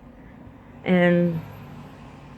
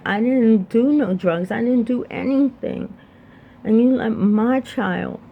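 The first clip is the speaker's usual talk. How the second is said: higher-pitched, reliving the anger at God; retold anger at God; 5 semitones higher than usual. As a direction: replay the old protest, pitched up and aggrieved. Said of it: "I was very angry at God".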